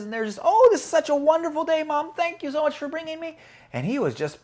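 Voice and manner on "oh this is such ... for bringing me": put-on high-pitched, gushing child voice; grateful little boy. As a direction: thank mom as a happy small boy. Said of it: "being so grateful".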